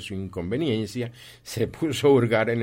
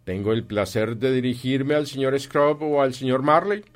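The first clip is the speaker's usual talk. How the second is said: raised, louder courteous enquiry; formal gentleman; 5 semitones higher, 5 dB louder than usual. Acted. Visiting gentleman asks which partner he addresses, formally courteous. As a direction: address him with ceremony, voice lifted.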